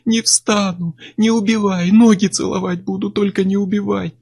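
high, wailing plea; grovel, begging not to die; desperate begging. A narrator's reading. Chuck on the floor begs Miller to spare him, wailing.

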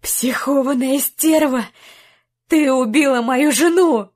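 raging at the woman he blames; furious accusation. Acted. Jack rages at Mia. (яростно)

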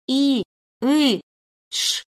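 strained sounds ending in a shush; involuntary hiss. Acted. Captive woman hearing steps nearby, involuntary hiss. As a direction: let a hissed hush slip out. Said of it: "невольно зашипела".

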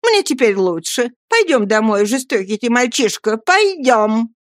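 pleading scold. Acted. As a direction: drag him home with a scolding plea. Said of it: "сказала молодая женщина".

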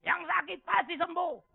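high, slow, loud mock healing-preacher; mocking a faith healer. Pastor mocking prosperity preachers, slow, high mock sermon. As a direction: ham up the empty promise. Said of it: "jangan harap dengar khotbah di tempat ini".

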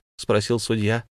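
ordinary delivery, nothing marked

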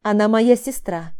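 сдержанная злость сквозь сжатые зубы; процеди, еле сдерживая гнев. Acted. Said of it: "сквозь зубы сказала я". (цедит сквозь зубы)

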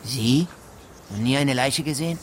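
can't believe it, push it up; incredulous. Acted. Gamekeeper doubts the judge has seen corpses, incredulous.

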